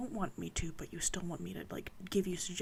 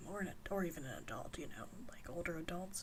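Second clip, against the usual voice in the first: whispering. Real, not acted. Late-night ASMR whispered chat.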